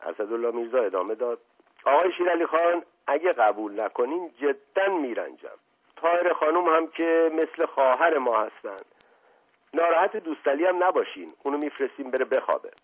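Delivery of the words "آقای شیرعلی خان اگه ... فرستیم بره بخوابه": lightly voiced charmer, higher and hurried; eager flattering prince. Asadollah coaxing the butcher, eager and raised. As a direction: press the invitation eagerly.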